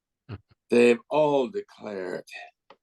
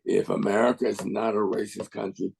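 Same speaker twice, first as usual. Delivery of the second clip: deliberate spoken-word delivery with weighty pauses; measured protest poem, phrase by phrase; poem recitation. Acted. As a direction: recite each image, pause, then state the refrain. Recites own poem, Racist Country.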